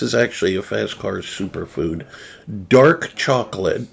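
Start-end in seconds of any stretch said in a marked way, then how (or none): 2.7-3.9 "Dark chocolate" with an open ah in "chocolate"; careful "Dark chocolate", outsider's ah vowel; other people's pronunciation. Shown as a demonstration. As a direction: say "chocolate" as "chahk-lit" in "Dark chocolate". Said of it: "Oh, that's how they say it".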